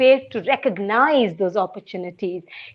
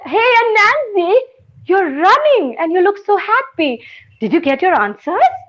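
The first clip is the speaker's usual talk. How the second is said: put-on girl's voice; 8 semitones higher than usual. Girl voiced in story.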